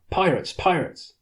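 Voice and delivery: high, loud warning cry; shouted alarm. Acted. A crewman yells to the police crew that pirates attack, shouting. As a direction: bellow the warning twice. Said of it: "shouted someone".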